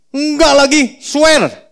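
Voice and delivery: hammed-up Peter swearing; swearing denial. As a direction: swear it with force. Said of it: "Petrus pakai swear segala loh".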